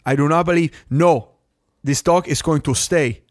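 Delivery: a playful hint of a fed-up Cuban putting her foot down; mock angry Cuban. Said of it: "Just get mad and be like".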